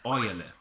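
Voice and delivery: "oyele" in three syllables, "oy-ye-le", with a Y glide; Nigerian pronunciation. Shown as a demonstration. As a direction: stretch "oyele" into oy-ye-le instead of one syllable. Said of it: "pronounce the word oil as oyele".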